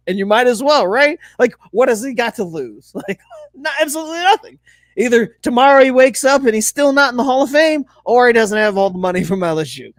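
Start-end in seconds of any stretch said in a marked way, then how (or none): 5.0-9.9 lightly voiced Kermit impression; a hint of a froggy Kermit. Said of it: "doing a Kermit the Frog voice there".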